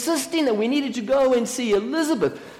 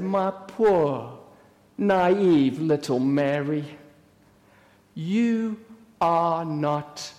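very slow, low, patronising calm; calm counseling voice; 4 semitones lower, slower than usual. Acted. Sister explaining to poor naive Mary, slow counseling voice. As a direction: soothe her slowly, pausing between phrases. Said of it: "put on my counseling voice".

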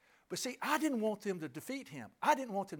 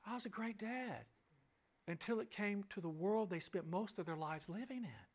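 quieter, hushed "I was a great dad", letting "world" fall; softer repeat; 7 dB quieter than usual. Shown as a demonstration. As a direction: drop the voice and say it again intimately. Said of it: "Now listen to this".

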